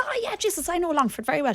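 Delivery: high mock American movie-star accent; Vin Diesel's accent. Quoting Vin Diesel to friends, in his American accent. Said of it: "In his culty accent".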